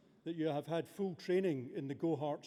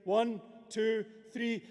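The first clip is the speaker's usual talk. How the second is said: loud countdown; 6 semitones higher, 5 dB louder, slower than usual. Real, not acted. Leading crowd countdown.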